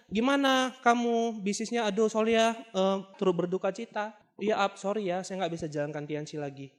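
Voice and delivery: mildly gloomy retold apology; mock mournful. Acted condolence call, slow and sinking.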